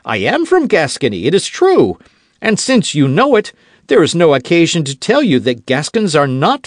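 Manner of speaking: high, loud Gascon bluster; quarrelsome heat. Acted. D'Artagnan lecturing Aramis, hot-tempered and loud. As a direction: push back hot-tempered. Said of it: "quarrelsome spirit began to speak more loudly".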